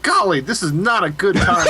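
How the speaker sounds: mild, laughing folksy politeness; gently apologetic with a laugh; nicer. Acted. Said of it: "he's gotta be nicer".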